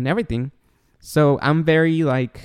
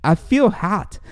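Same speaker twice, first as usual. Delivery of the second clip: put-on higher voice of a poorly child; lightly voiced child complaining; imitated young son; 7 semitones higher, slower than usual. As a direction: imitate a little boy feeling ill. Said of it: "he, he says".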